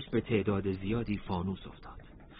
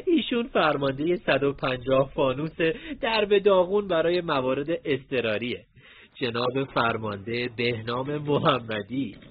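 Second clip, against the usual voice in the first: teasing laugh; 4 semitones higher, 5 dB louder than usual. Acted. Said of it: "رضا خنده خنده گفت".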